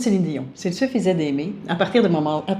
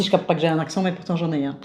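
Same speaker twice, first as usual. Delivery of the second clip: exaggerated Belgian Namur accent; forced Namur accent; 4 semitones lower, 5 dB quieter than usual. Wife overplays her Namur accent for viewers, forced. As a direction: lay the Namur accent on thick. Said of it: "là, tu le forces, ton accent".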